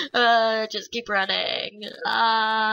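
panicked running cries; breathless fleeing panic; being chased. Real, not acted. Fleeing mobs.

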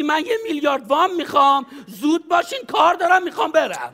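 impatient rich man rising in pitch; impatient demand. Shown as a demonstration. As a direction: demand the loan like you're in a rush. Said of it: "بعدم میگی".

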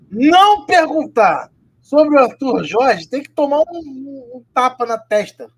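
loud, slow, outraged rant; indignant rant. Real, not acted. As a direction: spell out the outrage loudly. Ranting about the journalist's question.

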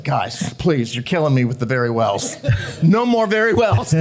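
lightly voiced tired director pleading; mock weary plea. Director begging the cast to drop the very wells, mock weary. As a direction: beg the cast to stop, half laughing. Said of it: "Ron came up and said".

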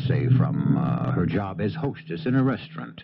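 measured, even storytelling; radio host narration. A narrator's reading. Host setting up the charter boat scene, calm narration. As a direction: set up the scene for listeners.

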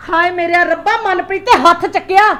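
upset outburst. Acted. Mother to son about her slapped daughter, agitated and loud. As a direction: burst out in alarm over the news.

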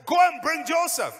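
high, very loud royal order; commanding acted shout. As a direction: order servants at full voice. Pharaoh giving a command.

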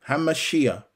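Hamashiach said deliberately, ending in an audible "ee-yah"; Hebrew pronunciation. Shown as a demonstration. Preacher showing Yah's name in the Hebrew title, Hamashiach pronounced "ha-ma-SHEE-yah". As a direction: sound out Hamashiach so "Yah" is heard at the end. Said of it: "Yah's name in the Hebrew pronunciation".

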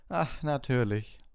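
slow knowing teacher voice; knowing professor. A narrator's reading. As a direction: drag it out, already understanding. Professor cuts Hermine off.

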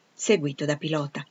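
usual speaking voice

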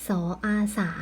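"สออาสา": consonant, vowel, then blended syllable; spelling aloud. Shown as a demonstration. Teacher spelling for pupils, measured sounding-out. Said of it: "เราจึงเขียนคำอ่านได้ว่า".

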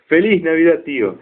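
saludo agudo y entusiasta, más fuerte; sobrino alegre. Retold or imitated. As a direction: grita feliz navidad con ilusión. (¡Feliz Navidad! agudo y alegre)

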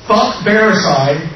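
slow, loud shouted curses; rally the crowd with a yell; shouting. Real, not acted. Crowd chant against company.

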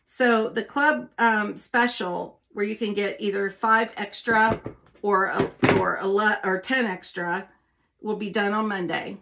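talking with tongue sticking out; words around a stuck-out tongue. Real, not acted. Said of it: "Hard to talk with your tongue sticking out".

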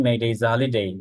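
slow, careful demo sentence; slow demo reading. Shown as a demonstration. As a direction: spell it out slowly for learners. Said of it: "খুবই fast উচ্চারণ করতে হয়". (ধীরে ধীরে উদাহরণ পড়া)

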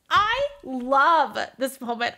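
slow, savoured gush; fangirling. Real, not acted. Fan savouring her favourite moment, slow and drawn out. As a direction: draw out the love for the scene. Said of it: "I'm done fangirling".

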